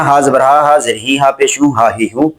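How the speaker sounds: हा जबर हा run together quickly, vowels clipped short; wrong rushed reading. Shown as a demonstration. Teacher showing pupils the hurried wrong reading. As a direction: rattle it off as the mistake to avoid. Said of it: "इसको ऐसे नहीं पढ़ना".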